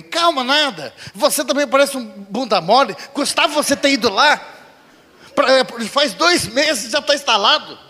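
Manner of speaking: angry scolding. Retold or imitated. Wife scolding husband.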